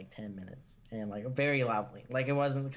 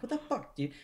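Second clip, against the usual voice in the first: higher pitched, disbelieving at the stuck door; incredulous outburst; 9 semitones higher than usual. Retold or imitated. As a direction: throw it up high in frustration. Retold frustration at locked door.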